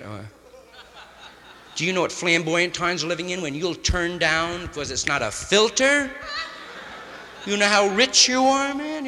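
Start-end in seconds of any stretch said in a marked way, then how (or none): 1.8-9.1 rising to an indignant high squeal on filter; mock scolding. Mocking a smoker who turns down unfiltered cigarettes, indignant. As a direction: scoff at the picky smoker, building louder and higher.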